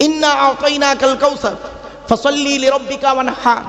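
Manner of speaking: careful Arabic recitation of ইন্না আতাইনাকাল কাউসার; a cleric demonstrating proper tajweed; correct Quranic recitation. Shown as a demonstration. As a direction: recite ফাসাল্লি লিরাব্বিকা ওয়ানহার with the হে from the throat. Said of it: "এই গলার ভেতর থেকে হে এটা উচ্চারণ করবেন".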